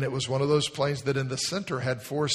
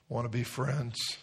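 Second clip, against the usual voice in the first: gentle invitation; 5 dB quieter than usual. Acted. Jesus asking gently.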